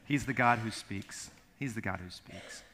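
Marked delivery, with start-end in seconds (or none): 1.6-2.6 softer, lower repeat. Shown as a demonstration. Pastor repeats the line softly to the congregation. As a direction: let it settle quietly. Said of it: "repeated statement".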